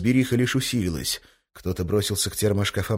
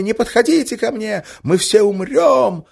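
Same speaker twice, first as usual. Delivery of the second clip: slow, high, drawn-out wail; 8 dB louder, slower than usual. Acted. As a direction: wail it in mock terror. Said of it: "истошно вопя".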